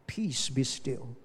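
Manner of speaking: soft, slow "Peace, be still"; slow, soft calming command. Retold or imitated. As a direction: hush the storm gently. Pastor lays hands, calms person.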